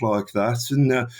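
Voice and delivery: lightly played-up Birmingham accent; Brummie accent. Shown as a demonstration. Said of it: "don't do the Brummie accent".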